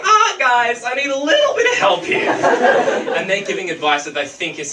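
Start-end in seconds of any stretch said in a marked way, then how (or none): 0.0-2.3 higher, strained call to friends; calling for help. Retold or imitated. Drifting out to sea, calling friends in a higher voice. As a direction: nervously ask mates for help, pitched up. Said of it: "So I'm like".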